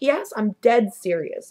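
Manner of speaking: slow, emphatic insistence; dead serious. Retold or imitated. Answering John's doubt, slow and dead serious. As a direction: lean on it slowly, insisting. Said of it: "Are you serious?".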